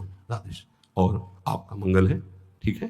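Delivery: a hushed, slow, low Radhe Shyam; slow tender greeting. Shown as a demonstration. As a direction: melt the words, drawing them out sweetly. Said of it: "बहुत प्रिय वचन".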